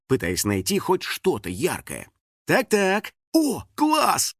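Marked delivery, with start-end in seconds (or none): 2.5-4.3 high delighted find; joy at spotting the shirt. A narrator's reading. Girl finds a purple shirt, delighted. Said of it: "обрадовалась она".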